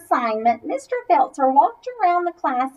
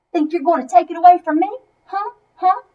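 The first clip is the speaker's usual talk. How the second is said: challenging; 3 semitones higher, 5 dB louder, faster than usual. Acted. Pete challenging Ruby.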